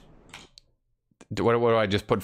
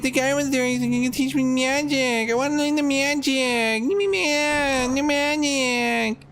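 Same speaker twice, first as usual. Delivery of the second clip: pleading in a much higher whine, stretching me; high, whiny mock plea to be taken back; whiny begging; 13 semitones higher than usual. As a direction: beg like a kid denied a treat. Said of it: "I'm like".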